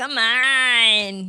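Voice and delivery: Brooklyn Italian accent with drawn-out on. Pressing another speaker to reveal a name: Brooklyn Italian accent. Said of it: "That was real Brooklyn Italian of you".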